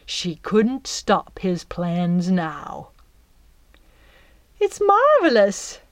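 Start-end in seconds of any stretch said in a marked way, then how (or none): 4.6-5.8 high, louder enchanted sigh; dreamy sigh. Acted. Belle inside the net, sighing with wonder. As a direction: breathe it out in awe. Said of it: "Belle sighed".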